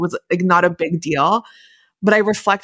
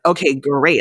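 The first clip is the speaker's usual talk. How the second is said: mildly sarcastic retort, imitating a partner; a touch of mock approval; retold sarcasm, kept understated; 3 semitones lower, slower than usual. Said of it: "being sarcastic towards one another".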